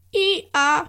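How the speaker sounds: bright happy hee-haw; joyful donkey bray. Acted. Donkey braying with joy at carrying Maria. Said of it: "schrie da der Esel vor Freude".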